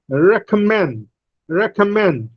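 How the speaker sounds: "recommend" with MEND strongest; primary stress on last syllable. Shown as a demonstration. Teacher models "recommend" for students, stressing MEND. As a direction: lighter REC, weak middle, falling MEND in "recommend". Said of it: "mend has primary stress".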